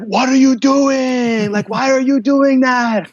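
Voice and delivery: high, slow, exaggerated mock coach voice; mocking his coach. Retelling how his coach scolded a student who threw up, in a high, slow mock voice. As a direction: ham up a baffled instructor. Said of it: "And Edson's like".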